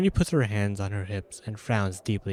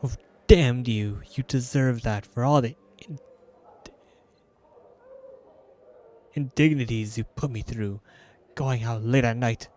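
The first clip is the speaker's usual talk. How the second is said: mock scolding. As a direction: play-act an angry wife. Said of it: "Nenny's fury rises another notch".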